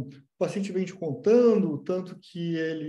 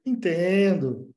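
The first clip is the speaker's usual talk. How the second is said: slow, drawn-out, agreeing "Entendo"; sympathetic entendo; 4 dB louder, much slower than usual. Shown as a demonstration. Analyst siding with the patient, slow sympathetic agreement. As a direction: stretch it out to show you are taking their side. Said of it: "é diferente de quando você fala".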